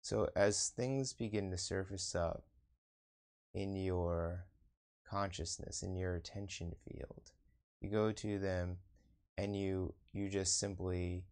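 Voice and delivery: measured meditation-teacher delivery, pausing between phrases; guided meditation. Acted. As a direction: lead them inward in unhurried, spaced-out phrases.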